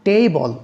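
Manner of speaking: টেবল with TA drawn out and strong; stress on first syllable. Shown as a demonstration. Teacher giving a noun example, first syllable of টেবল stressed. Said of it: "stress on the first syllable".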